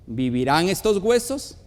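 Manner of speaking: a grave question from scripture; measured scripture question. A narrator's reading. God asking the prophet about the bones, solemn question. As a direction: read solemnly, rising at the end. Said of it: "Y me dijo".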